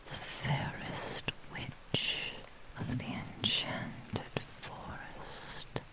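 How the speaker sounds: very soft, voiceless whisper with long pauses; intimate whisper. Acted. Kitsune tells her captive her name, whispering intimately. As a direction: breathe it out like a secret incantation.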